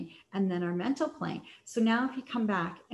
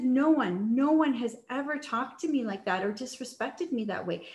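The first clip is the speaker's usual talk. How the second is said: retold indignant retort; 3 semitones higher than usual. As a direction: put him in his place. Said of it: "I was in my masculine energy".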